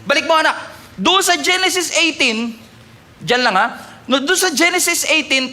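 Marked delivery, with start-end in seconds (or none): none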